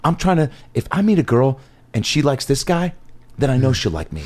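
a light put-on suave guy, slightly lifted; lightly voiced lovesick bachelor playing it straight; full acting mode. To the producer, the speaker stays in character as the wig guy. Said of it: "full acting mode".

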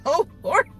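imitated crying. Woman retelling crying on the ground, mock tearful cry. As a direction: act out crying out to the Lord. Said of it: "on the ground crying like".

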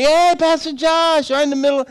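imitated big hello; hearty hail. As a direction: holler a name across the store. Stranger's greeting replayed.

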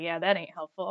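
put-on deadpan it like a gruff old guy; old man voice. Sweet old man, dry.

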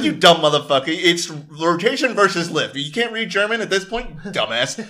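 mock-scold a clueless brother; retold scolding. Kids trying to fly the helicopter, mock scolding. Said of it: "It's like".

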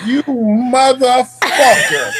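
very slow, drawn-out laughing curse; laughing mock outrage. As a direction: stretch the insult out in disbelief. Sandwich kicked, retold outrage.

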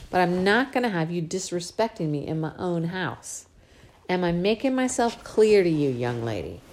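lightly voiced scolding father; a hint of a gentle but firm dad; father scolding his spoiled little girl, lightly voiced; Daddy's voice. Father lays down rules.

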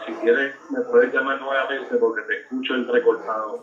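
thin voice over a bad phone line; breaking up on a call; tinny talking telephone. Real, not acted. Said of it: "parece que hay un poco de problema con, con la señal".

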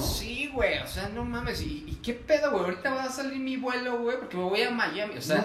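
forced chilango. Pretend. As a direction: overplay the stereotyped chilango showing off his Miami trip. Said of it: "Como el chilango forzado".

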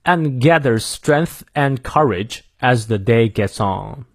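slow, careful American English reading; American accent, R sounded in "gathers"; American pronunciation. Shown as a demonstration. Teacher finishing the second take, American pronunciation. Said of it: "美式发音念两遍".

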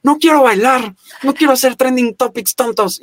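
high-pitched, hammed-up protest; mock stubborn refusal. Actor replaying his refusal to dance on TikTok, mock stubborn. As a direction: play a reluctant kid refusing, pitched well up. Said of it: "yo estaba rehusado al inicio a abrirlo".

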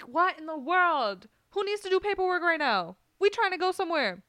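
high, loud, incredulous outburst; outraged disbelief. Retold or imitated. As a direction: throw up your hands in disbelief. Outraged at paperwork delay.

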